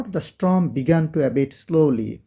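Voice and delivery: each word of the storm began to abate said very slowly, with storm stressed; slow model reading. Shown as a demonstration. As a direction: read it out word by word for learners. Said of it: "একটু অর্থ করে পড়ো". (ধীরে ধীরে স্পষ্ট করে পড়া)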